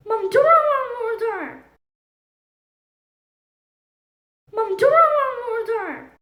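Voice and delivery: put-on high, babyish garbled words; a small child struggling to speak; hushed little toddler voice; toddler talk. Toddler Albert's garbled first words.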